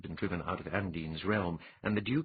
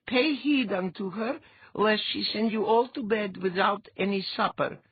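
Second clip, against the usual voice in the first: mock-solemn intoning; 13 semitones higher, 4 dB louder than usual. A narrator's reading. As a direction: proclaim it with a wink. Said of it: "Letha intoned".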